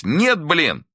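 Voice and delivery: a high, loud bark. A narrator's reading. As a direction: snap it out angrily. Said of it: "рявкнул он".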